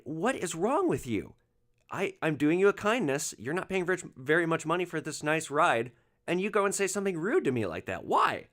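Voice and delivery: exasperated retort. Retold or imitated. Driver to rude passenger, exasperated and incredulous. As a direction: ask why he'd be rude to you, genuinely baffled.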